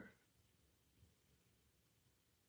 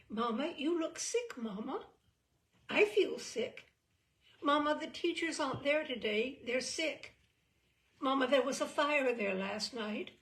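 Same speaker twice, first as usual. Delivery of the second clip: put-on higher, louder little girl begging mama; child pleading; 5 semitones higher, 7 dB louder than usual. A narrator's reading. Little girl begging her mother to let her stay home, high pleading voice.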